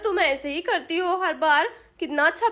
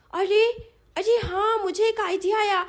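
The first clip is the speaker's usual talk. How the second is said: put-on higher babyish voice, sudden idea; light up like a child with a plan; inspired little girl; 4 semitones higher than usual. Sonam tells Chinki to wait there, excited child voice.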